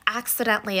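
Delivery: "accidentally" singled out with emphasis; stress on accidentally. Real, not acted. Storyteller explaining an accidental crime, stress on "accidentally". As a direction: lean on the word "accidentally". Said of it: "Emphasis on accidentally".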